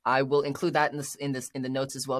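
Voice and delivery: tripping over the words; a slight stutter on in this. Real, not acted. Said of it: "I'm stuttering a little bit".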